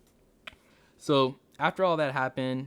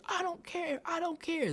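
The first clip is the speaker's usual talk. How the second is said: high, careless put-on voice; mock defiant; 5 dB quieter than usual. Narrator imitates the driver brushing off the police, high and defiant. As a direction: toss it off like a defiant brat. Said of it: "And then she says".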